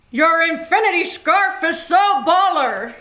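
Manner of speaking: put-on loud, high, slow Southern accent; hammed-up Southern drawl, projected; Southern gentleman. Player reading a card for the judge, Southern gentleman. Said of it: "Southern gentleman".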